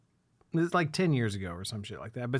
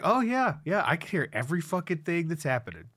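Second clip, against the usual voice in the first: sarcastic; 4 semitones higher than usual. Retold or imitated. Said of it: "It's like".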